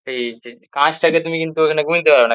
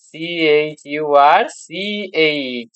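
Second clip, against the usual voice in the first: spelling out slowly; slower than usual. Shown as a demonstration. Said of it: "এই যে চার্চ".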